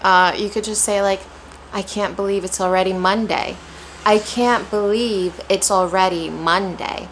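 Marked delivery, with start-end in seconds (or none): 1.7-3.5 moderate, with a gentle push on "Monday"; less excited stress. Shown as a demonstration. Teacher offering a calmer option, lightly stressed. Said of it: "don't have to be as excited". 4.0-7.1 measured, pausing after "believe"; different rhythm. Shown as a demonstration. Teacher showing another possible rhythm, measured and stressed. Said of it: "different intonations, different rhythms".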